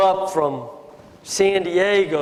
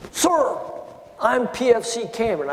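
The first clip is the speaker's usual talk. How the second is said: put-on much higher, eager young recruit reporting; young private; 5 semitones higher than usual. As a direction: pitch it up like a nervous kid private. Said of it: "And he goes".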